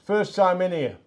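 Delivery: calling across the pub, loud and high; shouted out. Retold or imitated. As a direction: shout the name across a noisy bar. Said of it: "somebody shouted out".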